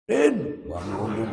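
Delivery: a student shouting for his friend during Quran study, loud; loud call. Shown as a demonstration. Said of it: "Dia manggil temennya".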